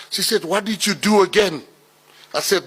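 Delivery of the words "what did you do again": accusing mother. Retold or imitated.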